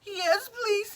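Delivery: high crying voice; tearful yes. Acted. Wolf accepting tea from Missus Duck, tearful. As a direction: say it through grateful tears. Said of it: "he cried".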